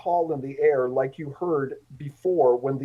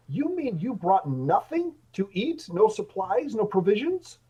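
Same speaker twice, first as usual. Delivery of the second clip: mildly piercing, higher-pitched complaint; a lightly voiced demand, pitched up; 4 semitones higher than usual. Indignant traveler calls from the back of the party, lightly piercing. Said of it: "a piercing voice from the back".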